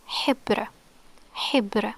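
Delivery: "hibr" sounded out with an Arabic h and final r; demonstrated pronunciation. Shown as a demonstration. Teacher reads out the Arabic example "hibr", demonstrated pronunciation. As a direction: give "hibr" as a separate word, repeated after a pause. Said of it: "This word is".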